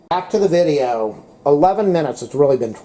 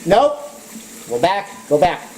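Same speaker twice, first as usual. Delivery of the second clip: sharp no; 4 semitones higher than usual. Real, not acted. Stopping the dog from entering.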